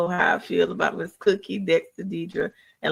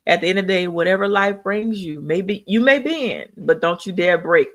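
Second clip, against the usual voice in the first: emphatic sign-off; 4 dB louder than usual. Real, not acted. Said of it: "I say this every time".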